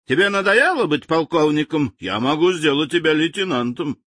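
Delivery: high, angry interrogation; seething. Acted. General seethes at his colonel, threatening demotion. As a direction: boil over at the colonel. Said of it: "кипел генерал".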